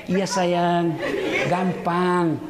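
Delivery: lightly voiced cooing husband; mock sweet talk. Husband promising his mistress gifts, mock sweet talk. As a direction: coo it like a cheating husband.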